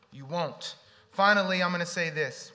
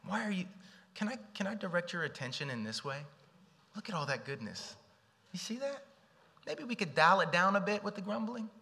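gentle inner talk; 4 semitones higher, 3 dB quieter than usual. Pretend.

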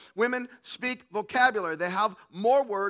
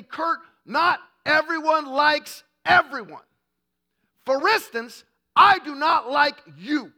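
higher and louder, hammed-up blunt dismissal; cold rejection; 4 semitones higher, 5 dB louder than usual. Girlfriend dumps Kurt, hammed-up blunt and loud. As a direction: spell out the rejection, building louder. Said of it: "She didn't say it in that particular tone of voice".

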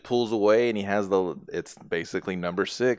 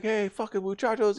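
mocking Hector; 12 semitones higher than usual. Hector flipping them off.

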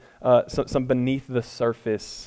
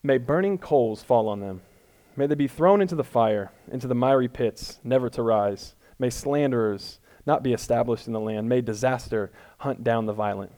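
elegant reading. Shown as a demonstration. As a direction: read the curse like a solemn liturgy. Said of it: "I'm gonna try to read it elegantly".

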